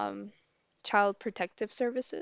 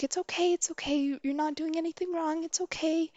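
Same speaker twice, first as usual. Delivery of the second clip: higher-pitched mock-soothing voice; retold reassurance; 8 semitones higher than usual. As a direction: reassure a crying child, acted out higher. Woman reassures crying child.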